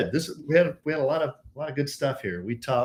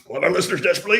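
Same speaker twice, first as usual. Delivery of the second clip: croaky voice; 5 semitones higher, 4 dB louder, much faster than usual. Real, not acted. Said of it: "I got a frog in my throat".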